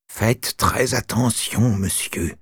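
slow, menacing repeat; sarcastic threat. Retold or imitated. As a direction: threaten politely, slowly. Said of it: "Ce sarcasme était clairement une menace".

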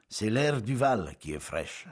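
slow, dragging complaint; same dragging tone. Acted. Paoli to his guests, slow dragging words. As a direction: drag the words out wearily. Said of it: "Du même ton".

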